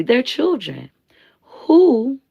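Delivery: breathy hushed whisper. Real, not acted. Whispering to her live viewers. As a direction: drop to a secret whisper. Hushed aside about children.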